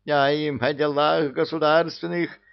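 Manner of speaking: a witch storming through her hut; бушует от ярости; raging. A narrator's reading. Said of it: "бушевала внутри избушки Яга".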